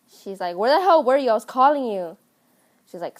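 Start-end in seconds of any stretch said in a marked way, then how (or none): 0.6-2.2 annoyed scolding. Retold or imitated. Mistress scolds late maid.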